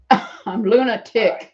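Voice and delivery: slow, laughing pun. Real, not acted. Woman telling her scam-call names, slow and amused. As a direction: savour the joke name. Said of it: "my name is Luna".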